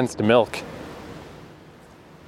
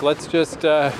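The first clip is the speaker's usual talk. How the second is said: higher, mock begging; pleading; 3 semitones higher than usual. Asking the lady to switch to English, mock pleading. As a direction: beg to be let off the hook.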